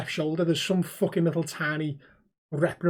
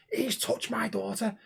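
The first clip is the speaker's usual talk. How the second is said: slow, slightly raised mock complaint; lightly voiced aggrieved dad; upset father; 4 semitones higher, 6 dB quieter, slower than usual.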